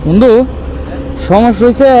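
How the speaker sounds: shouting over the wind; calling out. Real, not acted. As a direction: call out loudly to a friend. Calling to friend on bike.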